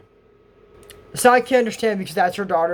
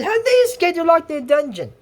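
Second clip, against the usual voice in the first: high-pitched shocked outburst; retold alarm, pitched way up; alarmed disbelief; 10 semitones higher than usual. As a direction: act out startled disbelief, voice jumping high. Acting out news of escape.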